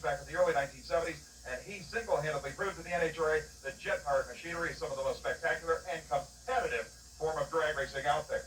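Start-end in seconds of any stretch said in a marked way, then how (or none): 6.1-6.9 "competitive" with emphasis on "pet"; stress on competitive. Real, not acted. Reporter defending jet racing as real sport, stress on "competitive". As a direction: punch the word "competitive". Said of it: "I stress the word competitive".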